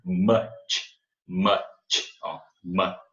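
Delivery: much with a short clear vowel; English drill. Shown as a demonstration. Teacher drilling much for students. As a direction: repeat much slowly. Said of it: "um som de I bem longo".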